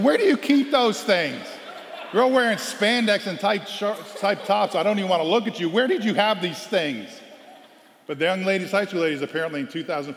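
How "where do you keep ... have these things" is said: much higher, louder, slowed disbelief; incredulous coach. Retold or imitated. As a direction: sputter in amazed disbelief. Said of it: "I'm like".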